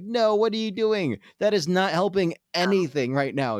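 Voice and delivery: high-pitched, mock-exasperated telling-off; exasperated protest. Onlookers protesting at a singer smashing his mic, mock exasperation.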